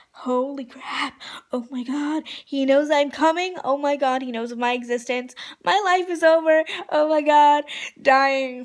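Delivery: fangirl panic building to loud, high outburst; hammed-up dying of excitement; retold freak-out. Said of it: "freaking out".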